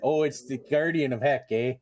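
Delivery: light mock Canadian accent; a playful Canadian eh. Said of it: "you gotta say that in a Canadian accent".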